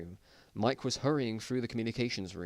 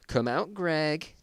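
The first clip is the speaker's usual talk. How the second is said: slow call; 6 semitones higher, much slower than usual. Acted. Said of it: "and shouted".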